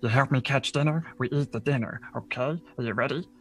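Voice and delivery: guide's put-on voice, in short instructions; hunting guide. Guide recruiting the party to catch dinner, put-on character voice. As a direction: play the guide rallying helpers for a hunt. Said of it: "and says".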